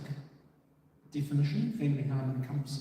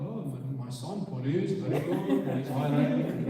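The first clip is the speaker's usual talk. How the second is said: imitated immigrant parent, louder as approval grows; mock-proud dad voice, building in volume; 5 dB louder than usual. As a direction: play the parent coming round with pride. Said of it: "then they go".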